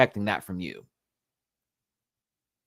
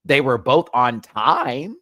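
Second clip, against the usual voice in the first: slower, louder, leaning on both; slow emphatic repeat; 5 semitones higher, 9 dB louder, slower than usual. Shown as a demonstration. Vlogger repeating the lip sync timing point, slow and emphatic. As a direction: drag it out to hammer the point.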